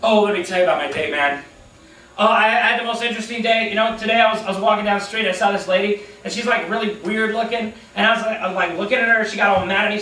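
fast, rambling talk about himself; lightly voiced selfish talker rattling on; self-absorbed chatterer. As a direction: babble on without pausing for breath. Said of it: "they'll be like".

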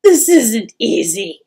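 loud, strained tearful admission; weeping mother steeling herself. A narrator's reading. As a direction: struggle to say it through tears. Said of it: "looked at the boy tearfully".

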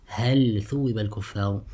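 هل with a distinct ل before ثوب; izhar. Shown as a demonstration. Teacher recites the next example for students, izhar. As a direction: keep ل and ث apart in هل ثوب. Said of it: "recite with إظهار".

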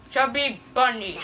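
words through stuffed cheeks; slow, mouth crammed with marshmallows; mouth full. Real, not acted.

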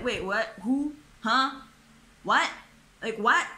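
stacked baffled questions, rising in volume; confused disbelief. Retold or imitated. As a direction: act thrown by a sudden confession. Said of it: "I'm just kinda like".

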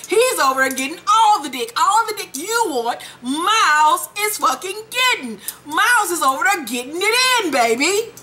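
put-on high, gossipy girlfriend voice; sassy friend voice. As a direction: dish the gossip with sass.

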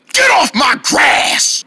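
drawn-out cranky shout; stretched-out scolding holler; angry yell. Acted. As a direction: yell to chase them off the lawn. Chasing girls off lawn.

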